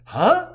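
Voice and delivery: a short grunted huh; high grunted huh. A narrator's reading. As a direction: grunt it out, puzzled.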